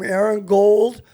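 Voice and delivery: normal talking voice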